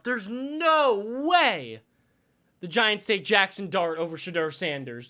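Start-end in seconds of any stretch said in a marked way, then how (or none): 0.0-1.8 slow stretched there's no way; drawn-out disbelief. Real, not acted. Streamer watching the draft, slow incredulous there's no way.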